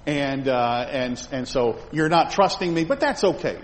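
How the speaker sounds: lightly voiced soothing God; mock-indulgent God. God shrugging off complaints, lightly voiced ironic reassurance. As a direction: play God as too easygoing, ironic. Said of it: "And God said".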